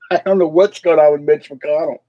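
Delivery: amused, words riding on a laugh. Real, not acted. Vlogger baffled by a missing politician, laughing. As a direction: start on a real chuckle and talk on. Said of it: "I keep laughing because".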